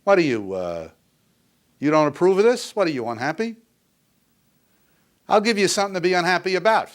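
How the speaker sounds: loud, high, fast furious tirade; enraged dad berating the kid at the table; angry father. Retold or imitated. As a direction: tear into the child across the dinner table. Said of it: "say something like this".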